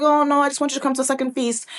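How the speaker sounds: high, quick, sing-song demurral; coy Esther. Retold or imitated. Preacher voicing Esther putting off the king, coy.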